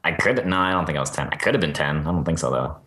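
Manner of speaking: ordinary talk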